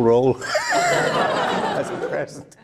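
real amusement while telling; laughing. Real, not acted. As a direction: laugh breaking into the words. Laughs mid-line about the gift.

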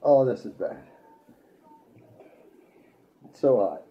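loud burning-mouth groan; pained outcry. Real, not acted. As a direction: cry out as the heat hits. Pain from biting habanero.

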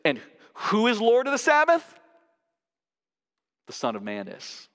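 question-and-answer stress demo; emphatic reading. Shown as a demonstration. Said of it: "we could hear it like this".

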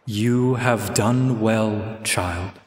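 low, slow voice from the sword; mysterious sword voice. Acted. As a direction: otherworldly voice.

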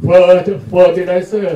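Fer- cut off, then fertilizer said loud and slow, syllable by syllable; careful pronunciation. Shown as a demonstration. Speaker answers the listener's request to say fertilizer clearly, loud and slow. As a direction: restart and say fertilizer slowly and loudly, clearly. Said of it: "ชัดๆเลยฮะ".

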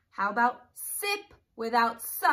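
slow, careful teacher read of "hip". Shown as a demonstration. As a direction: spell it out slowly for kids. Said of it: "take out the beginning sound".

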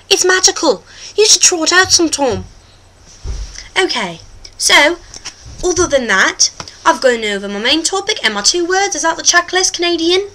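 hammed-up British presenter accent; put-on British accent. The host talks to viewers, put-on British accent. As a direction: play a chatty host in mock British.

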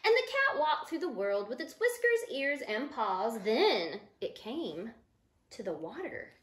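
put-on reading to children. Teacher reading the book to her listening children, storybook voice. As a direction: read it to a group of small kids.

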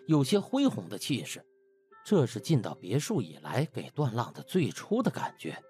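ordinary delivery

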